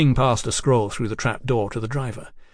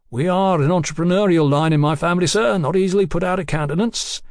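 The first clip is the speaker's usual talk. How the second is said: lightly voiced chatty tradesman king; a hint of a garrulous bill-sticker, unruffled; bill-posting king; 3 semitones higher than usual.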